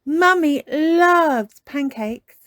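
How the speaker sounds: put-on slow, high little girl voice; sing-song child delight; little piglet girl. A narrator's reading. Peppa's voice.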